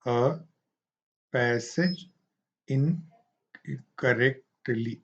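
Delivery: slow, one word at a time, long gaps; robotic reading. Shown as a demonstration. Teacher demonstrating robotic reading to students, slow and flat. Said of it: "उसको यदि हम robotic वे में पढ़ें".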